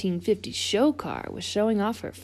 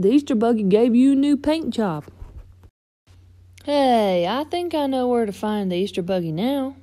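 higher, eager storybook voice; marvel, then pipe up with an idea; lively and pitched up; excited tow truck character; 5 semitones higher, 4 dB louder than usual. Acted.

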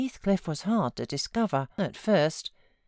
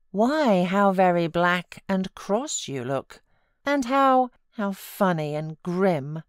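laughing exclaim; 4 dB louder than usual. Acted. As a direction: tease him breathlessly. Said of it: "burst into a laugh, exclaiming".

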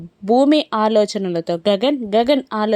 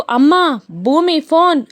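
calling out; 5 semitones higher than usual. Acted. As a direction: call mother from another room. Daughter calling mother to the phone. (అమ్మని గట్టిగా పిలవడం)

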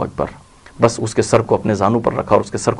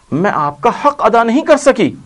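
tearful cry; 9 semitones higher than usual. A narrator's reading. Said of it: "روتے ہوئے وصیتیں کرتی ہیں".

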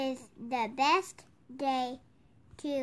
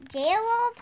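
calling out; 8 semitones higher, 4 dB louder than usual. Pretend. Calling the elephant's name again.

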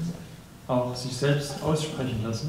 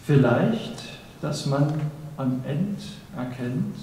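poem recitation; slower than usual. Acted. Reciter presents a poem on love and achievement, deliberate poem recitation. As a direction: recite with weighty pauses between phrases.

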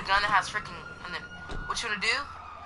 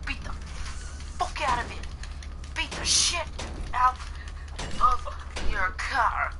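put-on English accent pitched up and stretched word by word; high drawn-out English accent; 3 semitones higher than usual. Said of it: "talk in this English voice".

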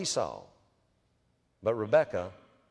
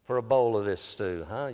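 sly Jacob; 3 dB quieter than usual. Retold or imitated. Jacob slyly taunting his starving brother, softer. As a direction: tease him, knowing you have him. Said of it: "Jacob, seizing on the moment, said".

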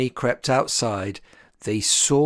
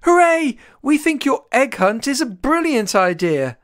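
high, loud happy cheer; a crowd of little animals cheering, louder; cheering creatures; 9 semitones higher, 5 dB louder than usual. A narrator's reading. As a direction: cheer it to the Bunny. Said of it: "the creatures gave a cheer".

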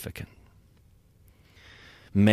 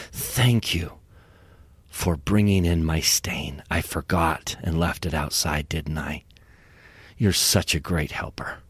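put-on lower, gentle father to his child; tender apology; 5 semitones lower than usual. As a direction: soothe a startled little son. Father tenderly apologizing to startled son.

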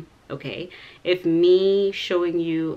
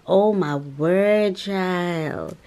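louder and very slow; slow awed exclaim; 5 dB louder, much slower than usual. Real, not acted. Showing off the dress, slow loud wow. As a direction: draw it out in wonder.

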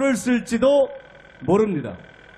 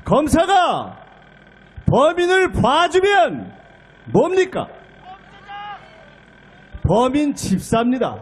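usual speaking voice

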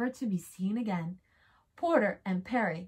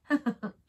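chuckle. Acted.

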